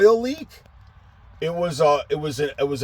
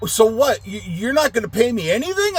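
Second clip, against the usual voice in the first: much higher mocking whiny question; indignant customer; 10 semitones higher than usual. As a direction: mimic the guy asking about pay. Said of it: "And he's like".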